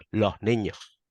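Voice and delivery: "los niños" as "loh niño", S aspirated without vowel opening; western Andalusian. Shown as a demonstration. A western Andalusian speaker saying "los niños". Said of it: "soy de, más de la parte occidental".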